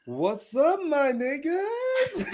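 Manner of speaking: quoted high and very slow through laughter; cracking up while quoting the line; laughing quote. Retold or imitated. Guest quotes a funny line from Zan, laughing.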